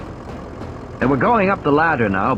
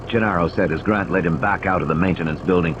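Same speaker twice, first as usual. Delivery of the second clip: a touch higher, excited retelling; lightly voiced Gennaro; 5 semitones higher than usual. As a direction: rattle it off eagerly.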